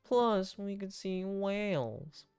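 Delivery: lightly voiced laid-back captain; a hint of unhurried dad character; easygoing captain dad. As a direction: ease into it, stretching the later words. Voices Joseph in the game.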